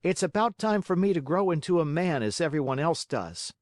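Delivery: put-on fed-up puppet boy, pitched high; disgusted Pinocchio. A narrator's reading. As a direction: complain indignantly in a high boyish voice. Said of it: "cried Pinocchio disgustedly".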